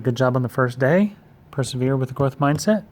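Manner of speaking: loud upbeat cheer; rally the class; cheerful pep talk. Real, not acted.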